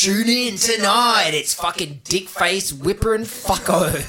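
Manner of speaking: Australian commercial radio DJ announcer patter. Speaker demonstrating how Australian radio sounds, Australian radio announcer voice. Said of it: "radio sounds like this".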